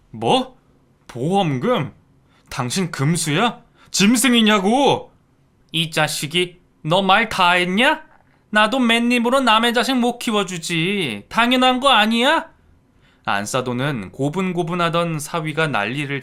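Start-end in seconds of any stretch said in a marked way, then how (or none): 0.1-5.1 loud, rising disgusted yell; outraged yelling. Acted. Son-in-law yelling in disgust at his stepmother. 5.7-12.5 loud, high defiant yelling; furious yelling. Acted. Stepmother yelling back at her stepson.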